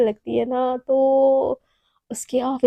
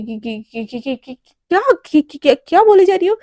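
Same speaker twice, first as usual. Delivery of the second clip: flustered stammer; 6 dB louder than usual. Acted. Naina caught off guard, stammering.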